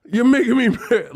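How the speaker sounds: high-pitched pretend tantrum; hammed-up fake anger; mock mad. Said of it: "I don't get mad like that".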